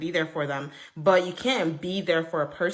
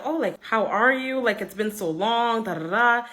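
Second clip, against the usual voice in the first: higher-pitched, lilting hello; effusive greeting; 5 semitones higher than usual. Retold or imitated. Friend greets Jessica's mother after so long, effusive imitated greeting.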